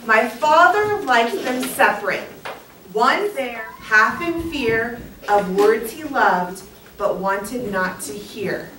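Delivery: "My father liked them separate" read slowly and deliberately; slow, careful first read-aloud of the poem. Shown as a demonstration. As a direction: read it slow so the class can follow along. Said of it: "I will read it slow so you can catch up".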